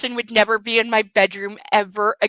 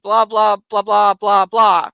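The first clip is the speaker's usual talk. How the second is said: dismissive blah; 3 dB louder than usual. Real, not acted. Mocking his possessive speech.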